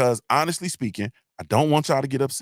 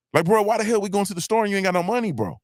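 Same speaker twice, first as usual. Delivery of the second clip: exasperated disbelief; 6 semitones higher, faster than usual. Real, not acted. Exasperated at friend's plan.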